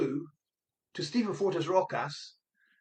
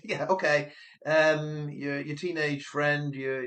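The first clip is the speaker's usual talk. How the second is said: sarcastic operator; 3 semitones lower than usual. Pretend. Operator answers a teenage girl's helicopter request, sarcastic. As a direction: humour the caller with mock agreement. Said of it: "let's use sarcasm".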